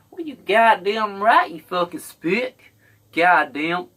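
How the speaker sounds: loud, high, slow hateful racist voice; racist yelling. Acted. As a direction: bark it out like a redneck bigot. Acting a racist yelling slurs.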